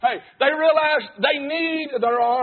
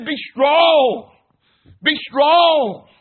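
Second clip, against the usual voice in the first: louder preaching; 3 semitones higher, 6 dB louder, much slower than usual. Real, not acted. Preacher shouts scripture quote.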